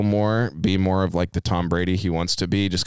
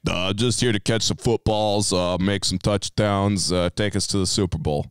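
mock Gronk accent. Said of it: "I don't know where he got that accent from".

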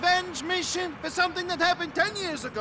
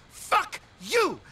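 shouted fuck you, a bit higher; angry shout; 5 semitones higher than usual. Acted. Frightened cousin yelling at Nico in anger. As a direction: snap back at him hard.

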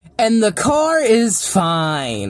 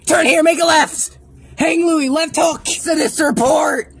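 frantic shouting; 6 semitones higher than usual. Acted. Frantic directions during car chase.

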